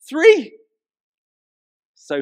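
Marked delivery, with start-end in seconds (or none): 0.1-0.6 loud, high cry of disbelief; mock outrage. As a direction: shout it as if the number is scandalous. Outraged at only three cards.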